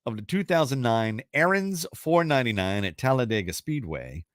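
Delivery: measured host read with swooping stresses; deliberate, suspenseful question reading; quiz question read. Acted. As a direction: read it out like a trivia host, stretching key words. Reads the trivia question aloud.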